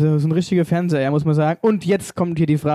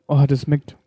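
talking with food in mouth; words round a bite of food; chewing while talking. Real, not acted. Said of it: "Ich will eigentlich grad gar nicht schwätzen".

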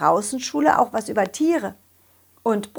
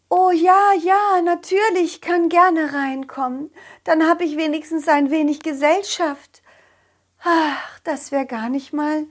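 high, lonely hen; 6 semitones higher than usual. Acted.

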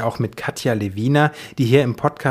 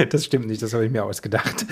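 laughing; 2 semitones lower, 4 dB quieter than usual. Real, not acted. Admits the joke while laughing.

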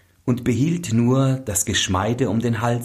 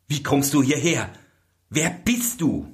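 startled; 6 semitones higher than usual. Acted. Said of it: "sprang er erschrocken zurück".

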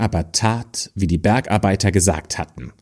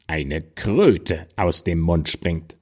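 dwarf dropping into a dark, slow curse; spiteful dwarf; 2 semitones lower, slower than usual. Acted. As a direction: let the toad curse land with relish. Dwarf curses the rude girl.

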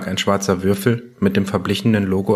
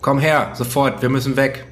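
barked commands; 4 semitones higher than usual. Acted. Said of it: "brüllte er Kommandos".

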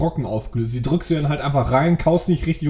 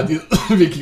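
coughing through the words; words broken by a cough; choking on a drink; faster than usual. Real, not acted. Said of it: "ich hab mich grad verschluckt".

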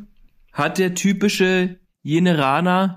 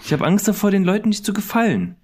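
mock worried; 5 semitones higher, faster than usual. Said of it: "Komm, reiß dich zusammen".

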